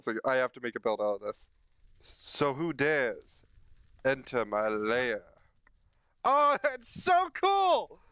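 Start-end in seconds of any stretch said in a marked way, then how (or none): 2.0-5.2 dragon voice. Pretend. Playful villain line in new build. 6.2-8.0 very high, slow, laughing delight; delighted squeal. Real, not acted. Delighted at the effect.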